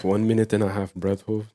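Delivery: mock breathwork tutorial, understated; Wim Hof. Echoing co-host's breath hold cue, mock coach voice. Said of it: "that's the Wim Hof breathing".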